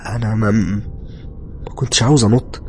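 slow, stammering start; stunned, halting answer; dazed reply. Acted. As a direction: stumble over the first words in a daze. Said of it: "رديت عليها وأنا متنح لها".

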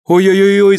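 put-on high, loud wail of a boy; boy's cry. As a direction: cry out in terror as a child. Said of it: "закричал он". (высокий громкий детский вопль)

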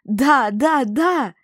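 high, loud squealing Да, да, да; joyful squeal. A narrator's reading. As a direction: burst out squealing yes in delight. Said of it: "но тут же завизжала".

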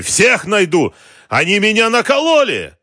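loud fury climbing very high; enraged roar. A narrator's reading. Cheated boss vowing to hunt them, enraged roar. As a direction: roar it, wild with outrage. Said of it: "ревел Георгий".

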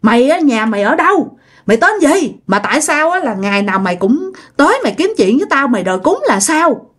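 mildly angry questioning; acted, understated confrontation; angry demand. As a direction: demand answers with a touch of anger. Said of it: "ông Tám mới tức quá".

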